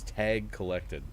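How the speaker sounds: slow, a hint of a game's robotic callout; game announcer voice. Player quoting the game's skull pickup announcement, lightly mimicked. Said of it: "it goes".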